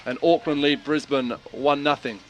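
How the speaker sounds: loud, slow, rising play-by-play call; excited call. Real, not acted. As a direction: lift it for the run scoring.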